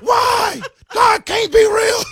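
high, loud despairing scream. Retold or imitated. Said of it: "I was literally screaming at the top of my".

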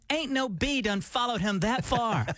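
put-on slow, lightly drawled Alabama accent; mock Alabama drawl. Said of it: "they got the real drawl".

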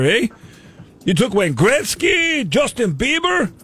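hammed-up fake Canadian accent, a hint of Irish; bad Canadian accent. Prank caller as Canadian customs officer, bad Canadian accent. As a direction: play a Canadian customs officer badly, all 'eh' and 'there'. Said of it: "combined for Cosmo's Canadian accent".

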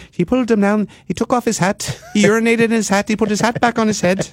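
high, incredulous recap of each outrageous act; amazed retelling. Retold or imitated. Host marvelling at the clip to cohosts, high and amazed. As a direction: list each act in rising disbelief.

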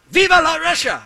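high, loud mock war cry; rowdy hammed-up shout of a crashing athlete; mock battle cry. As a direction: yell it like a charging Russian athlete. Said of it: "why they would say it in French".

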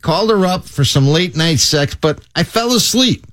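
imitating a Chicago guy's excuse; Chicago accent. Man confessing he fell asleep, Chicago accent. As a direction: tell it in a put-on Chicago accent. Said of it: "he told the cops in a Chicago accent".

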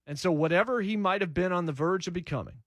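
might leaned on, said with weight; stress on might. Real, not acted. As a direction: hit the word might to show doubt. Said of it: "placing the emphasis on the word might".

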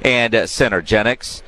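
measured sports-radio host introduction; radio show opener. Real, not acted. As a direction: announce the show and read the sponsors. Opens the radio show, sponsor read.

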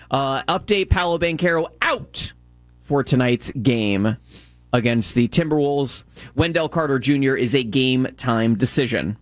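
measured sports update read; sports news read. Real, not acted. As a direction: read the scores like a radio update.

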